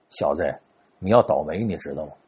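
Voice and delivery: 压低嗓子悄悄说; 凑近了神神秘秘地低声; 小声说. Acted. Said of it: "小声跟他说". (压低声音悄悄说)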